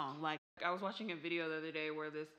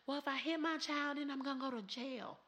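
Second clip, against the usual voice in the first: mock defensive mother; 7 semitones higher than usual. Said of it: "she's like".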